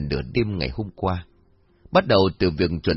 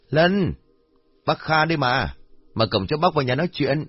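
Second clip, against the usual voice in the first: calling out; 6 semitones higher than usual. A narrator's reading. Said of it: "ông Kha gọi mãi".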